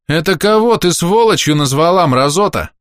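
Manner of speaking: high, loud angry yell; furious villager. A narrator's reading. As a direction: go for her throat with words. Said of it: "подал голос кто-то из подошедших деревенских".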